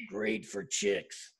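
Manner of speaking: slow, soft, smug mock voice of Stan; imitating Stan's voice. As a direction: drag it out like a proud sleaze. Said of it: "and that voice".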